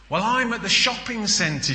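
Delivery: high, sweet wife on the phone; wife's voice. Acted. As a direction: lift the voice to play the wife. Wife's voice in the joke.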